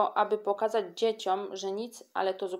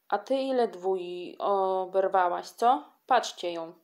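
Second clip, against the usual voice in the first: angry taunt; 4 dB louder, slower than usual. Acted. Kasia attacks Antolka angrily.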